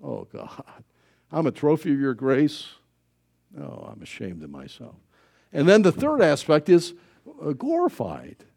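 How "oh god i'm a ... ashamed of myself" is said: despairing sigh. Retold or imitated. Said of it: "We go like".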